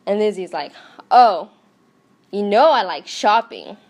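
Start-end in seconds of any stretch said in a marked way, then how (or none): 1.1-3.8 sinister. Acted. Sinister line before murder.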